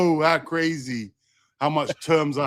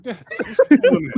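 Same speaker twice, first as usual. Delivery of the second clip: imitating son; 8 semitones higher, 5 dB louder than usual. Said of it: "He said".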